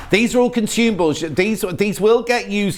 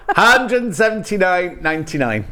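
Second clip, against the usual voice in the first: laughing. Real, not acted. Laughing at her own accent slip.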